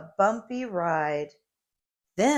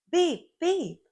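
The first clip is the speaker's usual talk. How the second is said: high, bright beep beep like a horn; truck horn beep; 10 semitones higher than usual. A narrator's reading. Little truck honking hello at the school bus. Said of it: "Little Blue Truck called".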